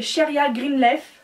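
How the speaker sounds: English name in a French accent. Real, not acted. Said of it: "Désolée pour mon accent merdique".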